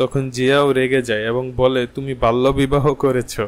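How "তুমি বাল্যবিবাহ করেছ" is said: plain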